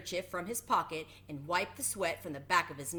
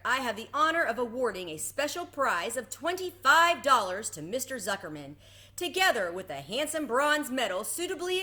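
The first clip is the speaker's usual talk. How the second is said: higher, louder award speech; fair announcer; 4 semitones higher, 6 dB louder than usual. A narrator's reading. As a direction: hand out the prize with ceremony. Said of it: "continued the loudspeaker".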